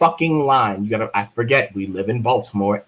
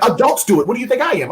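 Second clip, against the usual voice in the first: mock indignant teacher; 11 semitones higher, much faster than usual. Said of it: "She was like".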